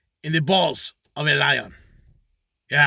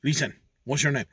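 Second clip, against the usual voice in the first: talking donkey; 4 semitones lower, 5 dB quieter than usual. Acted. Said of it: "he goes".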